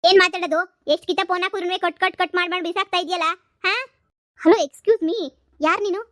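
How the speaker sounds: put-on jilted lover yells at her boyfriend; angry yelling. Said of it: "ಯಾಕ್ ಈ ತರ ಕಿರ್ಚಾಡ್ತಾ ಇದ್ಯಲ್ಲ".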